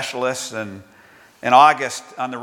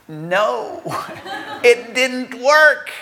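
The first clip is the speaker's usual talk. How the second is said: laughing; 7 semitones higher, much slower than usual. Real, not acted. Laughing at own failed treatment.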